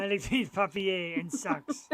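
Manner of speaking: put-on slow French accent through a laugh. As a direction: play the dog in French, laughing. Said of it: "French accent".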